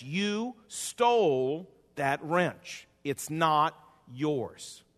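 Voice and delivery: lightly voiced God, slow and accusing; voice of the Lord. God rebuking the preacher over the stolen wrench, slow and lightly voiced. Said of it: "the Lord said to me".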